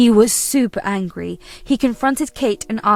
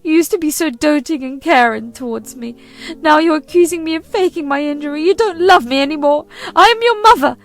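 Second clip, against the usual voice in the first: higher and louder, accusing the son; angry mother-in-law; 7 semitones higher, 6 dB louder than usual. Acted. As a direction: spit out every insult at the son's wife. Kate ultimatum.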